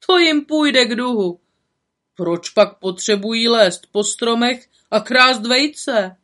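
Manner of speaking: slow, gloating village voice; gloating villager. Acted. Villagers at the pond gloating over the boys. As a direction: relish the boys' comeuppance.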